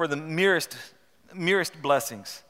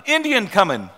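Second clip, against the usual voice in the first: raised shout of alarm, higher; cry of alarm; 5 semitones higher, 6 dB louder than usual. A narrator's reading. Watchman crying out the warning to the settlers, shouted. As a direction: call out the warning to the men inside. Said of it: "the cry went up".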